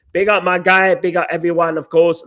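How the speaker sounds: losing his voice, raspy; strained hoarse voice. Real, not acted. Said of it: "Losing my voice".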